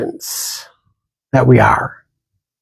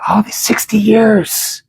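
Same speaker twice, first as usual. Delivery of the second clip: breathy whispered aside, higher in pitch; a husband whispering his shock to himself; stunned whisper; 8 semitones higher, slower than usual. Retold or imitated. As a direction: let the husband's private thought slip out in a whisper. Husband's stunned inner thought.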